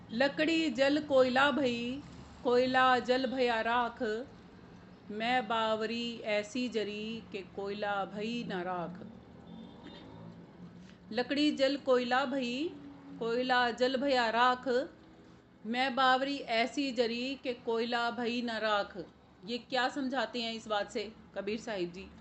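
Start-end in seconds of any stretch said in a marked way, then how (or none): 0.1-9.1 slow, measured couplet with drawn-out words; verse recitation. Acted. Preacher quotes Kabir's couplet to listeners, slow verse recitation. 11.1-19.0 slow, measured couplet with drawn-out words; verse recitation. Acted. Preacher quotes Kabir's couplet to listeners, slow verse recitation.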